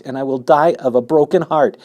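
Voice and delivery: loud, high heartbroken plea; desperate plea. Acted. Pig pleads that he will die of grief. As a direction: beg him sincerely. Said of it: "said Wilbur in desperation".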